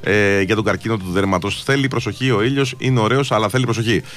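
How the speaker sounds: steady, low-pitched radio ad read. Acted. Radio host reads sponsor messages to listeners, ad read.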